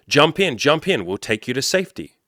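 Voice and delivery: high, loud call from the boat, fading after the first words; rescuers yelling. Retold or imitated. Rescue workers yelling at the man to get in the boat, loud retold shout. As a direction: shout it across the floodwater to the stranded man. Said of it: "they yell at him".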